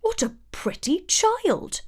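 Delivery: high, delighted little dwarf voice; a dwarf gasping at a pretty girl; exclaiming dwarf. A narrator's reading. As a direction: coo over a sleeping child. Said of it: "one of them exclaimed".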